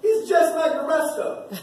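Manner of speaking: a hint of a scornful world sneering at you; lightly voiced, dismissive scoffing; the mocking world. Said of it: "that's what the world is saying".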